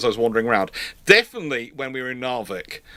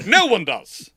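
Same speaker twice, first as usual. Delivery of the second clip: normal talking voice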